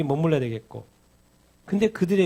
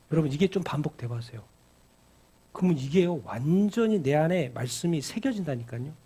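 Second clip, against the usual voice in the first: usual speaking voice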